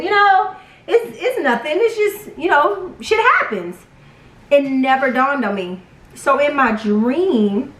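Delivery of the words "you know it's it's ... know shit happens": higher, laughing, shrugging it off; light laughing dismissal. Retold or imitated. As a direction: brush it away with a laugh. Laughing off the miscarriage.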